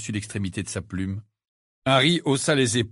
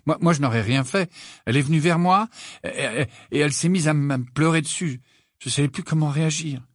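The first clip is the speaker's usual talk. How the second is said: higher, stammering protest; flustered self-defence; 5 semitones higher than usual. Acted. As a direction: stumble through an excuse. Harry defends himself, flustered. (justification troublée, hésitante)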